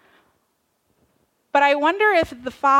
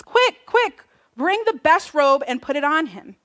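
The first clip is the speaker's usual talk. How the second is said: urgent father; 4 semitones higher, 3 dB louder than usual. Acted. Father urging servants in retold parable.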